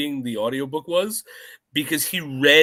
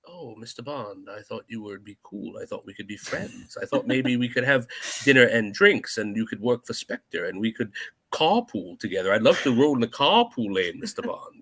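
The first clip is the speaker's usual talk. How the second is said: low, hushed mock-villain croon; Doctor No; 5 semitones lower than usual. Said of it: "Doctor No's like".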